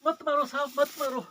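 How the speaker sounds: frightened beggar begging for mercy; pleading beggar. Acted. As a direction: plead pitifully with the sahib not to beat you. Acted beggar begging not to be beaten. (गिड़गिड़ाता हुआ बेबस भिखारी)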